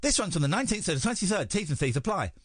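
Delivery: careful read, still lisping; attempting a clean read; trying not to lisp. Shown as a demonstration. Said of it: "without the lisp".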